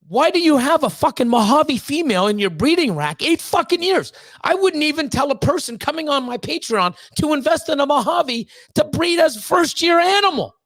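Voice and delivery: breeder ranting at a YouTuber's pairing, getting heated. Real, not acted. To another breeder, a real heated rant. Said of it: "I'm getting heated".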